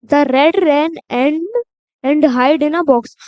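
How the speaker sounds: put-on reading a rhyme to children, word by word; slow, careful read-aloud; slow poem reading. Shown as a demonstration. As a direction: read each word slowly and clearly. Reads the poem slowly.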